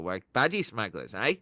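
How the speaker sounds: rough Aussie imitation; amateur Australian attempt; Australian accent. Shown as a demonstration. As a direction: practise a put-on Australian accent. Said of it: "It's my Australian".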